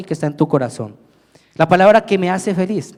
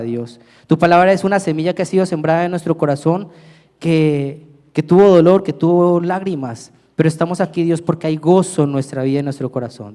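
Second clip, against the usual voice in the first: earnest prayer addressed to God, softening toward the end; heartfelt congregational prayer; spoken prayer. Acted. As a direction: pray aloud for the congregation. Pastor prays before the reading.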